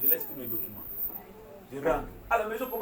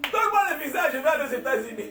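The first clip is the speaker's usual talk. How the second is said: retold bold demand; 9 semitones higher, 9 dB louder than usual. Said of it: "Je lui ai dit directement".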